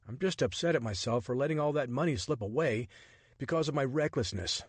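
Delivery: a hint of a startled man grumbling; Richard, exasperated. Richard's dialogue voiced.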